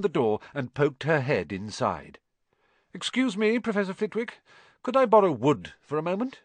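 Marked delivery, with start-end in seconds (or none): 2.9-6.4 high, crisp Scottish teacher; prim stern professor asking politely; voiced stern teacher; McGonagall voice.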